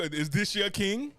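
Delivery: slow, drawn-out question; slow mocking ask. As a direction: stretch each word, mocking. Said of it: "they go".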